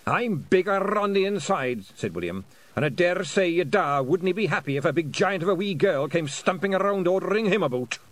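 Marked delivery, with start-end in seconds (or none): 0.1-1.8 higher, louder offended Scottish piper; an old man refusing orders from a girl; indignant old Scot. A narrator's reading. 2.7-8.0 higher, louder offended Scottish piper; an old man refusing orders from a girl; indignant old Scot. A narrator's reading.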